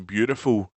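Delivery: "beautiful" said the American way; "beautiful" in a light American accent. Shown as a demonstration. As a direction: say "beautiful" as speakers in the States would. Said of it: "this is how speakers in the States would say it".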